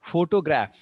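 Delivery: PHOtograph, punched loud on the opening syllable; photograph with strong stress on pho; first-syllable stress. Shown as a demonstration. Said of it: "The first is".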